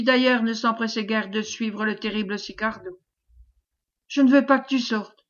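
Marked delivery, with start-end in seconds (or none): 4.1-5.2 raised cry of put-on despair; feigned despair. Wife blocks husband at the door, crying out in feigned despair. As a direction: plead loudly, as if suddenly desperate. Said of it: "en feignant un subit désespoir".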